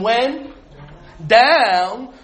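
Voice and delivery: "down" set apart by a pause and drawn out; stress on down. Shown as a demonstration. Teacher reading the verse to the class, "down" stretched after a pause. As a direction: hold back, then lean on "down". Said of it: "big emphasis on the word down".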